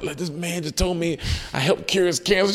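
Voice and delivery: high-pitched, overwhelmed retelling; retold tearful call. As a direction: imitate calling mom in tears, pitch way up. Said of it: "I'm crying".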